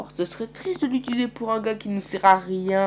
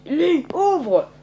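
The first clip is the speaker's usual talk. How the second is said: calling out; 10 semitones higher, 7 dB louder than usual. Acted. Kenny calls to open.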